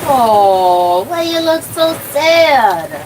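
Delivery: high, slow pet-talk coo. Real, not acted. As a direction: coo at the dog sweetly. Cooing to the dog.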